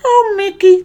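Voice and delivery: very high cartoon voice; a squeaky attempt at Goofy. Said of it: "Can you do a Goofy?".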